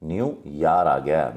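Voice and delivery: slow, drawn-out न्यू यार; mother's slow emphasis. Retold or imitated. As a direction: stretch न्यू यार so it sounds like the river Yarra. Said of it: "माँ कहती है बड़े बेटे से". (माँ बड़े बेटे से, धीमे खिंचे स्वर में)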